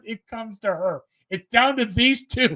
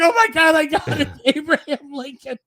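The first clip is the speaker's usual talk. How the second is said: laughing; 5 semitones higher than usual. Retold or imitated. Retelling the girl's answer, laughing.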